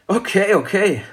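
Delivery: high, lightly amused giving in; lachend nachgebend. A narrator's reading. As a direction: give in with a touch of amusement. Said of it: "lachte die Mutter". (hoch, leicht belustigt)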